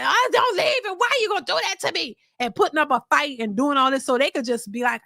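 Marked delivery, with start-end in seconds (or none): 0.0-2.2 high, frantic pleading, hammed up; mock screaming. Mimicking what women want men to scream, mock pleading. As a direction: imitate someone falling apart and begging. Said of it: "falling all over the place and screaming".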